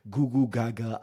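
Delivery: put-on high, loud goo goo baby talk; baby babble. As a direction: coo like an infant. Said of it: "like a fucking baby".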